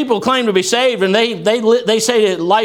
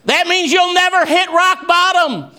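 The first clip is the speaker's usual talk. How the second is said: high, raised preacher's voice, rolling cadence; fiery preaching; 8 semitones higher than usual. Acted. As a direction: lift the congregation with rising fervour. Preaching at full force.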